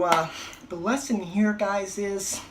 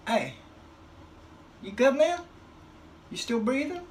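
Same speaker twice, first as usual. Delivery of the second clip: nervous check; 12 semitones higher than usual. Retold or imitated. Poking a maybe-dead old man.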